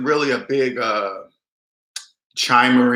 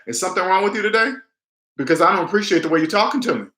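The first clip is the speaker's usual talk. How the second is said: brisk, higher, steady and direct; calm confronting question; 4 semitones higher, faster than usual. Shown as a demonstration. Telling off a moody manager, calm firm challenge. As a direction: call it out calmly but firmly. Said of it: "That's exactly how I would say it".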